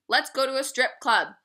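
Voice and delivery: mocking the ex. Mocking her ex's strip club idea, jeering. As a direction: mimic him with a jeering edge. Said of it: "This is my ex talking".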